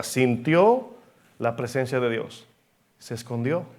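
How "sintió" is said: sintió leaned on and lifted; stress on sintió. Shown as a demonstration. Preacher to congregation, stressing sintió. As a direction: hit the word sintió firmly. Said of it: "Debo enfatizar esa palabra".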